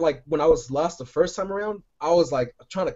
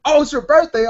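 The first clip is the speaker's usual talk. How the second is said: mock surprise; 10 semitones higher, 8 dB louder than usual. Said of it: "I'm like".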